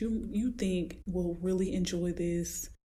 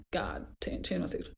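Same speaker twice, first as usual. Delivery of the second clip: mock prayer; 3 dB quieter than usual. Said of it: "you will start praying like".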